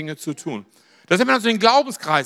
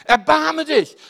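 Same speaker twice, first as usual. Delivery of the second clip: cry for mercy; 7 semitones higher, slower than usual. Retold or imitated. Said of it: "als zu schreien".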